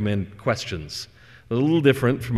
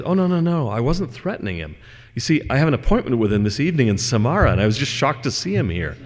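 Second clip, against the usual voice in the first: mock surprised Death; 4 semitones higher than usual. Death explains to master.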